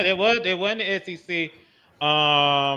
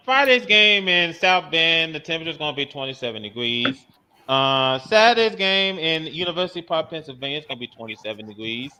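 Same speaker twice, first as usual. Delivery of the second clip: Al Roker; 2 semitones lower than usual. Acted. Co-host reading game-day temperatures to listeners, weatherman impression. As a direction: do a weather forecaster, falling away on the temperatures. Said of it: "Al Roker voice".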